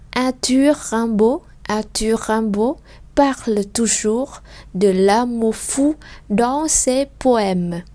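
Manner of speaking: very slow, phrase by phrase; slow reading demo. Shown as a demonstration. Teacher reading the last sentence slowly for learners. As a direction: read each chunk slowly and clearly. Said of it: "Tiếp theo nè, câu cuối cùng".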